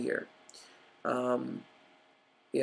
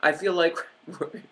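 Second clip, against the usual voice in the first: bitter laugh; 4 semitones higher than usual. Real, not acted. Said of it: "I'm laughing because".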